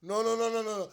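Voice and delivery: a fan refusing to believe the coach's words; mounting denial. Retold or imitated. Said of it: "I was like".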